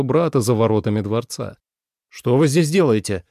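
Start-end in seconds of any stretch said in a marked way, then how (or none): 2.1-3.2 curt, a touch louder; sharp question. A narrator's reading. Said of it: "резко спросил он". (резкий вопрос)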